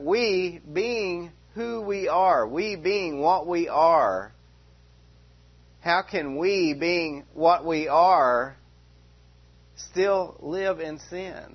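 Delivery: "we" leaned on, slow and deliberate; preacher hammering the word "we", slow and measured; slow emphatic we. Real, not acted. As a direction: drag out "we being what we are" for weight. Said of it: "So he's emphasizing the we".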